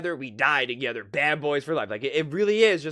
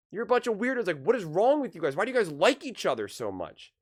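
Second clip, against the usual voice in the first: higher, mock baffled cry of weirdos; a mock-baffled outsider calls the team weirdos; mock incredulous outburst; 6 semitones higher than usual. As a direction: play the baffled outsider, pitched up. Imagined South Park reaction.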